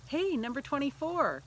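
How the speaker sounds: high, loud call across the crowd. Retold or imitated. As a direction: hail a boy from a distance. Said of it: "yelled over to my son".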